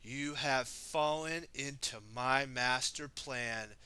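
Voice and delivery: slow, smug villain reply; sly villain. Acted. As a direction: savor the victory slowly. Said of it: "Garmadon replied".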